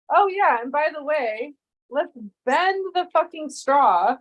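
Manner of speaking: mock designer. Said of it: "who was the dumbass that thought".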